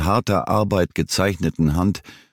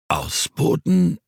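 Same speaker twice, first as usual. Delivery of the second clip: baffled echo; 11 semitones higher, slower than usual. A narrator's reading. Old man echoes the word, baffled.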